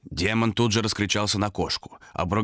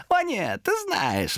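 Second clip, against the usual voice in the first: high creature voice, dropping; contradicting demon; much slower than usual. Acted. Demon contradicts hesitant Томас, insinuating. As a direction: object slyly as the demon.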